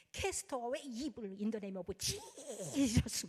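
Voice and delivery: very slowly drawn-out English exorcism command; commanding prayer. Retold or imitated. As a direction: call it out slowly, like casting out a demon.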